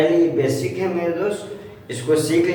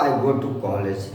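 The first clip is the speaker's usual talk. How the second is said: "I go to college" slow and softer; teacher drilling a sentence with the class; slow for repeating; 6 semitones lower, 4 dB quieter, much slower than usual. Shown as a demonstration. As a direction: say it slowly for them to echo. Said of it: "मेरे साथ बोलिए आप लोग".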